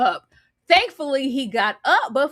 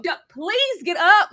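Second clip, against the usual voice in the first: slow, raised-pitch plea; exasperated high begging; retold pleading yell; 6 semitones higher than usual. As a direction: beg him, drawing it out. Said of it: "I was yelling".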